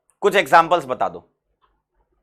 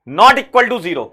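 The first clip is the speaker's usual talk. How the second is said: "not" hit hard, each word drawn out very slowly; stress on not; 4 semitones higher, 4 dB louder, much slower than usual. Shown as a demonstration. Teacher stressing "not" for students, slow and heavy. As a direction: lean on "not" and crawl through the phrase. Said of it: "देखो, not पूछा है".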